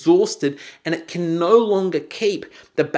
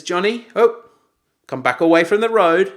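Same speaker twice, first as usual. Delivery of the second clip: put-on dad raising his voice at a child; firm, louder warning call; raised voice; 2 semitones higher, 6 dB louder than usual. Dad calls his son back from the road, raised voice. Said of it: "Raised voice".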